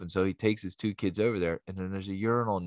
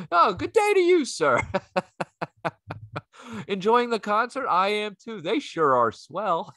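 much higher, hammed-up genteel gentleman; posh gentleman voice; 12 semitones higher, 4 dB louder than usual. Comic playing a polite concertgoer in the bathroom, hammed-up posh gentleman. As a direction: greet him like a refined old-time gent. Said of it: "a bunch of gentlemen in this bathroom".

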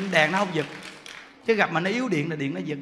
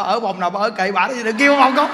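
mock loud refusal; 7 dB louder than usual. Nun refusing the ghosts.

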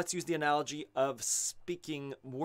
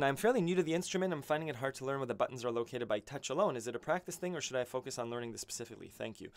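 reading question aloud; much faster than usual. Real, not acted. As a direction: read a viewer's question quickly, letting the volume fall away. Reads out a viewer's question.

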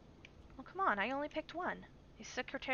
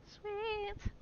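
pleased; 10 semitones higher than usual. Real, not acted. Figures out register.

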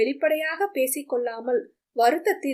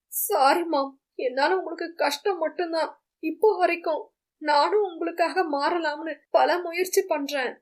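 higher son's voice, sorry and heavy; remorseful son; 4 semitones higher than usual. Acted. Son hugging his mother, apologizing in a higher pained voice. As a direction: plead with mother, voice raised and pained.

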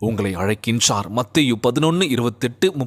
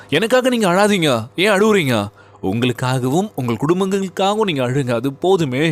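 Jesus's words; 4 semitones higher than usual. Retold or imitated. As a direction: cry it out as Jesus would. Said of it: "அப்படின்னு சொன்னார்ல".

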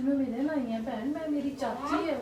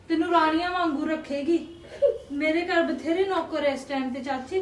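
tearful promise, pushed louder; crying, louder; 4 dB louder than usual. Acted. Niece promises her aunt a good home, crying louder.

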